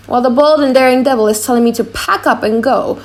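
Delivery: a flustered jester torn between two voices; comic clown. Acted. Launcelot the clown's monologue.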